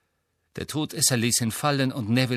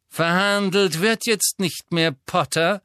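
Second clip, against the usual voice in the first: higher, louder cold sneer; Malfoy voice; 6 semitones higher, 4 dB louder than usual. A narrator's reading. Malfoy taunting Harry, cold sneer. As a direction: lord it over the boy.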